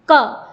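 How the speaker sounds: क with the trailing "a" sound audible; isolated, demonstrated क; pronunciation demo. Shown as a demonstration. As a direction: voice क as k plus short "a". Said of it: "पीछे से अ वर्ण की ध्वनि आ रही है".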